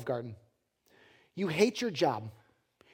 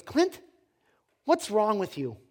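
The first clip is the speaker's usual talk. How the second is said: higher-pitched mock bewilderment; baffled; 3 semitones higher, 3 dB louder than usual. Buddy to happy cook, baffled. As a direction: call him out, puzzled.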